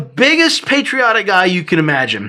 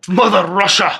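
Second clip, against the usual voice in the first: lightly put-on Russian accent; hint at an aggressive Russian speaker; mock angry Russian. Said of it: "in Russian just sounds like you're mad".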